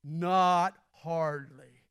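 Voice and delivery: very slow, dry drawl; lightly voiced cowboy comeback; understated tough-guy put-down; John Wayne line. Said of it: "And Jesus is gonna say".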